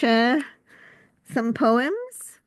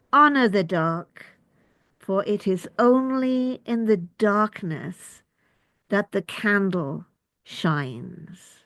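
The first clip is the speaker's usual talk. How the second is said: slow, measured poem with pauses between phrases; poetry reading; slower than usual. Acted. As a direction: let each image stand, unhurried. Reads own poem aloud.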